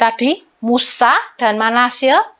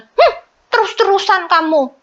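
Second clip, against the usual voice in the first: mock child complaint; 7 semitones higher than usual. Child scolded by sibling, voiced.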